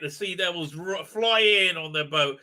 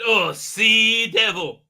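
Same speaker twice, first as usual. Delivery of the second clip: slow, louder mock film line; mock exclamation; 6 dB louder, much slower than usual. Retelling a film character naming the creature, hammed-up exclamation. Acting out the film's dialogue.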